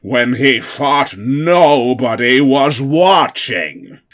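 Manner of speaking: high, loud showman reveal; dramatic loud reveal. Acted. Obama to the crowd, loud and theatrical. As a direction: unveil the photo like a circus barker.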